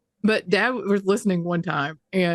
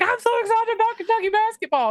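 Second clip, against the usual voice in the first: mocking fickle fans. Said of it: "now all of a sudden they're like".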